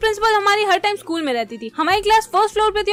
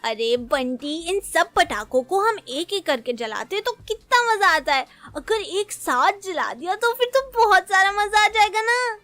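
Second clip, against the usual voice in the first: put-on child scheming. Acts child explaining firecracker plan.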